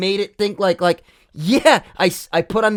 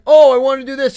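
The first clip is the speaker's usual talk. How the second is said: mock argumentative; 9 semitones higher, 9 dB louder, faster than usual. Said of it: "it's not like".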